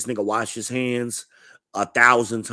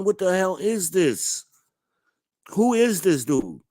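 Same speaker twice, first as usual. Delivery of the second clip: high, slow disbelief; mock stunned question; baffled; 9 semitones higher than usual. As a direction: ask it like you can't believe your eyes. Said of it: "I'm like".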